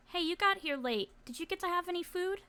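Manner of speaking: high, light voice; friendly girl approaching. Acted. Girl approaches shy boy.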